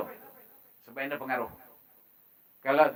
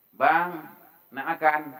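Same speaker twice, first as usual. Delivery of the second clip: mildly sweet wifely question; good, polite intonation; slower than usual. Shown as a demonstration. Wife asks husband if he wants food, politely. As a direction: ask nicely, like a considerate wife. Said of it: "Bagus kan?".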